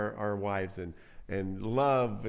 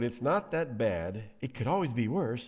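understated mock consolation; 2 semitones lower than usual. Elkanah offering his wife the old line, understated mock comfort. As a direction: mildly imitate a tired platitude. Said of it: "The old".

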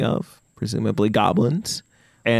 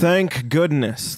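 slow, higher relieved horse; 4 semitones higher, slower than usual. Acted. The horse answering the adventurer, slow and relieved. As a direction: drag out the relief like a weary horse. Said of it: "the horse replies".

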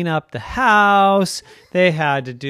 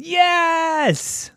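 family agreeing all at once; high gleeful yes; 4 dB louder than usual. Acted. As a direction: shout a squeaky, happy yes. Toute la famille répond.

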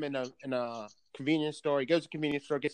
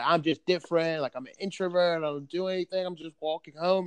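slightly pleading retold voice; imitated tearful plea; 3 semitones higher, 4 dB louder than usual. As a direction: mimic a distressed man's mild plea. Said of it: "like, crying out".

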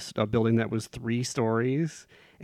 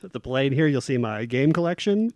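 airline pilot announcement. Pretend. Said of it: "Start talking like a pilot".

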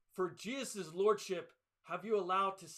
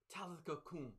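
much softer, tender command; gentle words; 11 dB quieter than usual. Retold or imitated. Jesus gently waking the dead girl, soft and tender. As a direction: speak softly to the sleeping child. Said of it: "gently touches the girl and says".

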